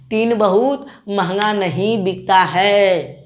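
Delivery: slow, each word of टीन बहुत महंगा नहीं बिकता है spaced out; slow, deliberate. Shown as a demonstration. Teacher repeating the mnemonic slowly for students, deliberate. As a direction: drill it slowly so it sticks. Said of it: "टीन, टीन बहुत महंगा नहीं बिकता है".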